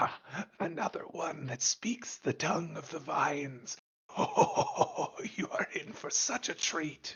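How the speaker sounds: strange rasping voice. Storyteller voices the cackling figure's reply to the players, in a weird raspy voice. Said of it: "like raspy voice".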